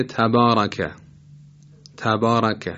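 heavy, full ra in تبارک. Shown as a demonstration. Tajweed teacher giving an example word, heavy ra in تبارک. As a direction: say تبارک with a thick, emphatic r. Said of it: "یعنی درشت تلفظ بشه".

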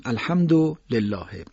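الحمدلله with short final u on du, run into lillah; joined reading. Shown as a demonstration. Teacher showing radio listeners the recitation, joined reading. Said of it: "با کلمه بعد با هم بخونیم".

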